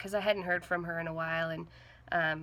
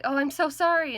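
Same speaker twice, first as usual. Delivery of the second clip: distressed; 9 semitones higher, 10 dB louder than usual. Retold or imitated. Mom hearing the death.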